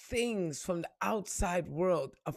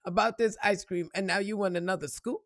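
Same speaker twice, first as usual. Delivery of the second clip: fed-up parent; 3 semitones higher than usual. Retold or imitated. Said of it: "As a parent, I'm looking at you sideways like".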